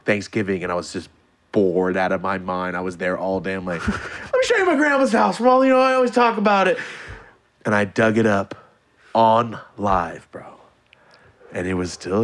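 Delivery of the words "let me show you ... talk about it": high, upbeat presenter voice; pitched-up mock streamer; livestream host. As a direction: sell it to your viewers.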